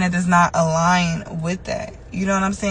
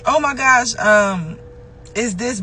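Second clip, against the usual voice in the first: habitual exclamation; 4 semitones higher, slower than usual. Retold or imitated. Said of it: "I always say".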